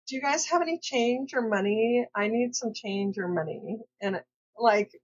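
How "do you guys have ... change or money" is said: light Valley girl accent, barely put on; a hint of an older Valley girl asking for change. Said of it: "that was her accent".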